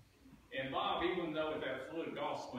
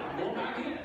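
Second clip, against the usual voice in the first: eager call; 10 semitones higher, 6 dB louder than usual. Retold or imitated. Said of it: "and he'd go".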